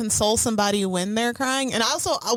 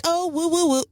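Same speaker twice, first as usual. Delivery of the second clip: higher, lightly mocking coo; 6 semitones higher than usual. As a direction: imitate someone fussing over a crier. Mocks being cooed over while crying.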